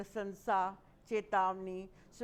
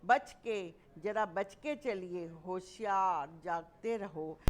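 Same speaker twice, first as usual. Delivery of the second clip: warning call. Shown as a demonstration. Teacher demonstrating a warning shout. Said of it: "खबरदार आदि शब्द".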